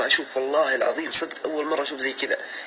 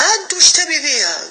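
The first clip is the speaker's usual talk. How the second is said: shrill loud mother, slow and much higher; angry mother; 12 semitones higher, 6 dB louder, slower than usual. Retold or imitated. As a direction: spit the question back with outrage. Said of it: "يوم رفعت صوتي قالت". (الأم تصرخ بغضب شديد)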